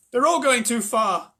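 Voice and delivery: high, loud, slow worried cry; boy crying out in alarm; cried out. A narrator's reading. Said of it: "cried Charlie".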